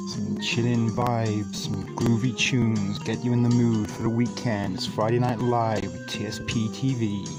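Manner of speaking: smooth late night DJ voice; late night radio voice. Acted. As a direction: croon it like a radio host. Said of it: "late night radio voice on".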